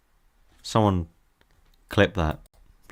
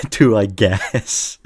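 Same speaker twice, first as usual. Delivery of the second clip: loud; 6 dB louder, much slower than usual. Real, not acted. Grudging pick after coughing.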